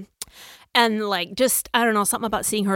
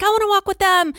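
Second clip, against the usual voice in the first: put-on high, louder little-kid whine; toddler voice; 10 semitones higher, 6 dB louder, faster than usual. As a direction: play the pleading toddler. Mom voicing her toddler.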